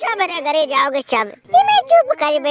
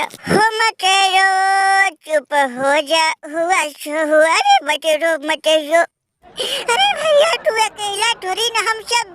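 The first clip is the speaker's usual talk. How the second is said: mock consoling. Friend hushes the crying loser, mock soothing. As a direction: soothe a sobbing friend, half in jest.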